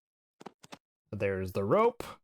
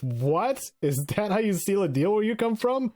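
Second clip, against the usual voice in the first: Joe pleading; 6 semitones higher than usual. Acted. Joe's plea voiced in game.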